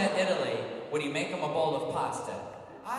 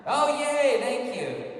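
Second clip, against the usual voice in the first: delighted; 6 semitones higher, 7 dB louder, much slower than usual. Real, not acted. Fan hands a gift.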